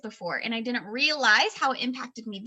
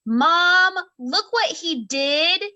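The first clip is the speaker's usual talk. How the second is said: put-on higher, louder kid calling for mom; imitated child calling out; 4 semitones higher, 6 dB louder, much slower than usual. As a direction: call out like a kid summoning mom.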